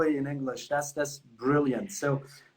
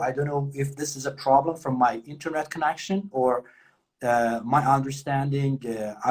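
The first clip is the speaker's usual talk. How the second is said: slow, careful, polite request; polite interview English; slower than usual. Shown as a demonstration. Teacher demonstrating a polite request to an interviewer, slow and careful. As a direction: ask them to repeat, slowly and politely. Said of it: "اینجوری که بگین خیلی عالی، شیک و مجلسی".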